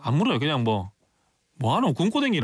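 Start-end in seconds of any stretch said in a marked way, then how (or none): 1.6-2.4 teasing Gyeongsang dialect. Retold or imitated. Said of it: "빈정될 때".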